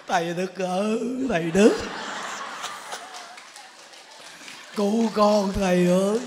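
drawn-out cry to the master; pleading call for help. Acted. Battered wife calls her teacher to save her, mock pleading.

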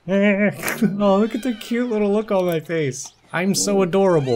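delighted cub voice with a laugh; giddy cuteness. Acted. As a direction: squeal at how cute you are. Admiring own cute kitten face.

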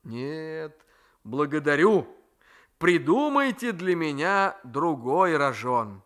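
a nephew daring fate to strike; defiant young man. Acted. Raisky refuses.

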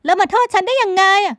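high, loud, protesting outburst; a woman loudly rejecting the blame; indignant young woman. A narrator's reading. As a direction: argue back in outrage. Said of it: "พลอยไหมโวยวาย โต้เถียง".

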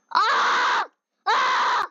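sudden scared cry; frightened yelp in the car; startled cry. Real, not acted.

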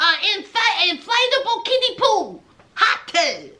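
a hammed-up jealous rant, fast; imitating a ranting husband; mock angry husband. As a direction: play the fuming husband, quick and indignant. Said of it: "Sean is going off".

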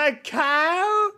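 high, loud mock yell; mimicked outraged shout. Viewer echoing the Scot's insult to Alexa, mock outraged shout.

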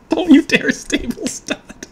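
high, slow mock threat; laughing warning. Real, not acted. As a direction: warn the deck, half laughing. Warning the shuffle.

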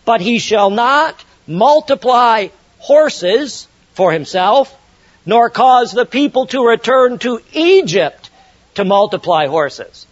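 slow, weighty reading, NOT leaned on; emphatic scripture reading. Acted. Preacher reads the king's prohibitions to the congregation, slow and emphatic. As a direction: spell out each prohibition slowly. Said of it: "look at verse sixteen and seventeen".

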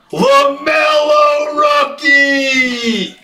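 high, slow, stretched hype call; excited shout. Real, not acted. Breaker announcing a LaMelo rookie pull, excited shout. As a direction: sing out the big name with excitement.

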